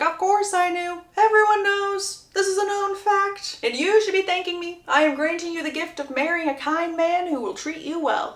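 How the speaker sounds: high, cartoonish grumpy old man voice, scoffing. Uncle scoffing at Lucy in a grumpy cartoon voice. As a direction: play a cranky cartoon uncle, dismissive. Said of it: "I cast him as a really grumpy old cartoon man".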